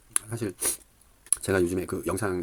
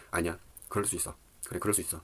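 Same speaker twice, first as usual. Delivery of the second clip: calming self-talk; 3 semitones lower, 6 dB quieter than usual. Retold or imitated. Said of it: "마음을 이제 가라앉히고".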